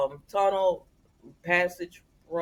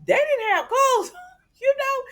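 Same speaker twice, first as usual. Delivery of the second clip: scandalized squeal of disbelief; shocked; 4 dB louder than usual. Real, not acted. Vlogger scandalized telling fans about the scene, high squeal. Gossip recap, shocked aside.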